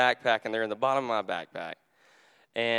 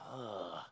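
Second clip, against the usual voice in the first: weary groan; 2 semitones lower, 11 dB quieter than usual. Retold or imitated. Pastor retelling his frustration over lost keys, mock weary groan. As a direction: let out a soft, frustrated "ugh". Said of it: "I'm just like".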